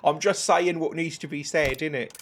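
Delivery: lightly mocking English-accented idiot. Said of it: "doing the English accent as a shorthand".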